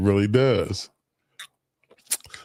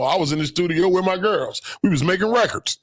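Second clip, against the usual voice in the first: mock excuse; 8 semitones higher than usual. Mimicking women's excuses.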